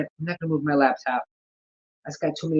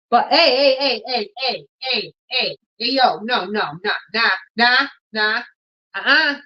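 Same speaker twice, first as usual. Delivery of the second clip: high, raised calls of hey to stop the cat; calling to the cat; 6 semitones higher than usual. Real, not acted. Owner calling out to her cat, high and raised. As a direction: call the cat off sharply, half laughing.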